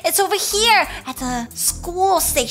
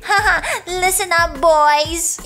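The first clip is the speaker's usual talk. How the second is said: laughing; 4 semitones lower, slower than usual. Acted. Laughing queen.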